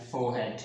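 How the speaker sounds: "फोरहेड" said as "fo-head", no R; silent R. Shown as a demonstration. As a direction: say "फोरहेड" with the R dropped. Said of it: "आर की sound यहाँ silent है".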